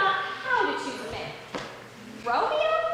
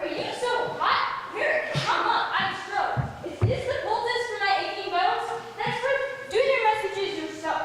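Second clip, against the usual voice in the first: teasing laugh; 4 semitones higher than usual. Acted. Nurse teasing impatient Juliet.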